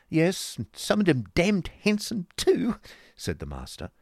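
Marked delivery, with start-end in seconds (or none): 0.1-2.8 high, loud, gushing fop; theatrical doting husband, pitched way up; affected husband. Acted. Affected husband leers about women.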